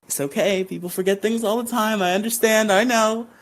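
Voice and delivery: lightly acted, high understanding tone; mock reassurance. Zach voiced reassuring his friend.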